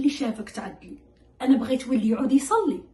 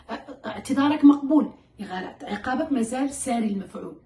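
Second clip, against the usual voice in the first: firm parent. Shown as a demonstration. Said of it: "أوكي، يو سوري".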